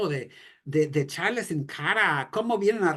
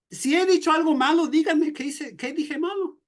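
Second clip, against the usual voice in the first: higher and louder, standing his ground; strong defiant challenge; 10 semitones higher, 3 dB louder than usual. Retold or imitated. Preacher voicing Jesus answering the soldier who slapped him, defiant and loud. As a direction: throw the challenge back, unbowed. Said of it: "Jesús le dice como de una forma fuerte".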